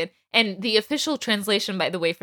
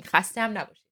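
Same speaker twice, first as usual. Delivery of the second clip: خسته هم نباشید thrown in quietly as an afterthought; offhand Persian goodbye; tossed-off courtesy; 4 dB quieter, much faster than usual. Retold or imitated. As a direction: toss it in like a small afterthought. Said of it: "he almost throws it in".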